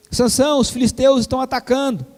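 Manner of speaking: alarmed call. Acted. Dalila calls out Samson again.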